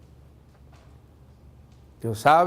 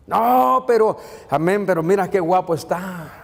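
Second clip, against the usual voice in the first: mock lovestruck protest; 3 semitones higher than usual. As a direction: mimic a smitten churchgoer brushing off advice. Mimics smitten person brushing off warning.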